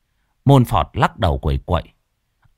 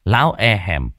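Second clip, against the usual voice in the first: usual speaking voice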